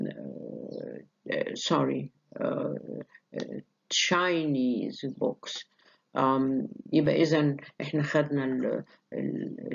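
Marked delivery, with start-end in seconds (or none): 3.9-5.6 Chinese stretched out slowly; slow demonstration stress on Chinese. Shown as a demonstration. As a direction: draw out Chinese, then books lighter. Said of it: "شوف الاسترس جت فين؟".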